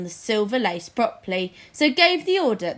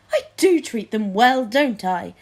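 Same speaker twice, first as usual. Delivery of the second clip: louder, fretful king seeking reassurance; anxious king; 5 dB louder than usual. Acted. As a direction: ask for comfort nervously. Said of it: "said King Fred anxiously".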